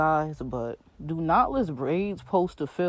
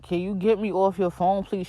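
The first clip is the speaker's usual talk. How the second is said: mildly raised mock complaint; imitating raised voice; 3 semitones higher, 3 dB louder than usual. Stylist objecting to being on the phone, mildly raised voice. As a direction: lightly imitate an annoyed demand. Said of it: "She raising her voice".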